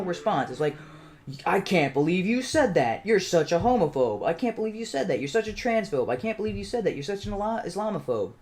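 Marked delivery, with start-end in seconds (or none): 1.4-8.3 higher, sing-song mocking of a scandalized accuser; mock outrage. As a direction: parody their shocked refrain, pitched up.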